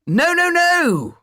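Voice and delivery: very high, slow outraged shriek; shouting. Acted. Marquis shouting at the footman over a candle, outraged. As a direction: stretch out each no in pampered fury. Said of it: "shouted the Marquis".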